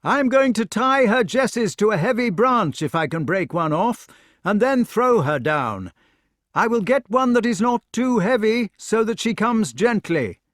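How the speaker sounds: high, loud call to someone far below; shouting down. A narrator's reading. Knight up a tree to the lady below, shouting. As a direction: shout it down from a height. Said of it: "He shouted to the lady".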